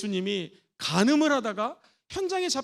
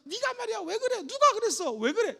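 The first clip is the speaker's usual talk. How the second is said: accusing mother; 8 semitones higher than usual. Shown as a demonstration. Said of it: "이런 폐쇄형으로".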